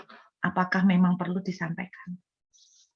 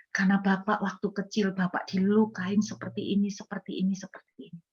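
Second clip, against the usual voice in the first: gentle, wrapped in love. Retold or imitated. Preacher tells a sinner what God showed him, gentle and loving. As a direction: tell a hard truth tenderly, letting phrases fade. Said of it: "Cara yang kedua ada dibalut dengan kasih".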